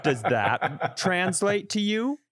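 condescending advisor. Retold or imitated. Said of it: "I was waiting for him to go".

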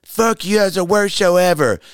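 high-pitched imitation of an irate woman; mock angry wife. Wife cursing the comic after his show, imitated high outburst. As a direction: throw it out high, as a mimicked tirade.

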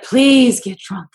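slow, drawn-out plea; a mild begging request; pleading. Retold or imitated. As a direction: stretch the please like begging. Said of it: "He's even said".

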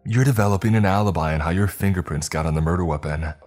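quick, scornful mockery; fast, sneering taunt; mocking. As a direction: rattle it off to belittle her. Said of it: "he mocked".

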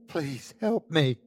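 high, slow desperate plea; crying plea. A narrator's reading. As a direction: beg for help, drawn out. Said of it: "cried the sickly man".

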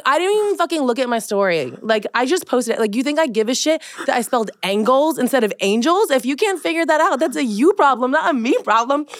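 passionate rant. Retold or imitated. Host retells her reply to typo correctors, passionate rant. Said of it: "expect it to be so passionate".

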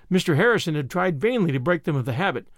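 usual speaking voice

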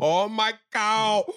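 high, loud, drawn-out cry; hammed-up cry of pleasure before the moo; mock ecstatic moan. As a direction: wail it out slowly. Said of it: "waiting for a moo".

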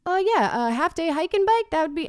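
bright mock enthusiasm for the tour; eager husband. Husband pitching the hike and bike, eager.

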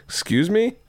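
high, rising mock disbelief; affronted daughter. Daughter questioning dad's order, affronted. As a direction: imitate a kid balking at an order.

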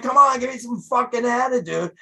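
retold demand for attitude from the band; yelling at the band. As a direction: push them hard for attitude. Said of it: "I'm like".

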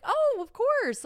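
high, drawn-out, eager yes; gushing agreement. Retold or imitated. Traveller happily agreeing to help a stranger, gushing. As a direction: agree sweetly, loud and high.

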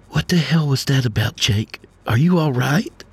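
worried wife. Acted. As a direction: ask him like a wife scared for him. Worried wife confronts husband.

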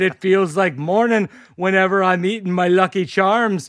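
cereal-advert Irish brogue; lightly hammed-up mock Irish; awful Irish accent. Tourist aping a Dublin man, awful Irish accent. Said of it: "I'll stop doing this accent".

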